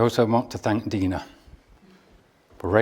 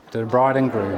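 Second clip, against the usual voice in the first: raising a toast; 3 dB louder than usual. Real, not acted. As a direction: call the toast out to the room. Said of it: "raise a toast to Bethany and Sean".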